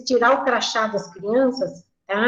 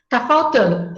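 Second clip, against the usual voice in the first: put-on child calling out.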